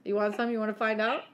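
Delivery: loud, playful tough talk rising at the end; mock challenge. Boasting to friends about left hand strength, mock tough. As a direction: goad them into a pretend fight.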